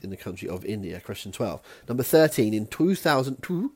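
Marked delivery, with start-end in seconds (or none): 1.9-3.7 animal voice. Pretend. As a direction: say it like a three-letter animal. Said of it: "I said it as if I was a, uh, a three-letter animal".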